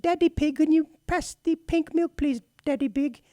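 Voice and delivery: a small girl mimicking Peppa Pig English; little girl British accent. Dad imitating his daughter copying Peppa Pig, high British child voice. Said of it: "my little daughter would impersonate".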